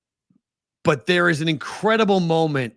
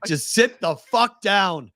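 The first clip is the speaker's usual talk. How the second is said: higher, slow, emphatic mock outburst; exasperated outburst; 5 semitones higher, slower than usual. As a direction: tell off the singers, drawing out each word. Fed up with drunk singers.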